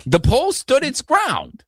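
an impression with a light accent and a slow, deliberate cadence. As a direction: imitate him with a light accent, drawn out slowly. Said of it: "that impression's not great".

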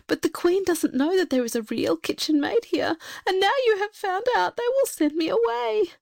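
put-on a frightened young maid pouring it out through tears; tearful kitchen maid. A narrator's reading. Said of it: "And she went on crying".

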